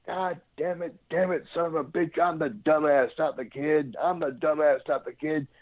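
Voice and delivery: grumble-curse at yourself, half-hearted; mock cussing.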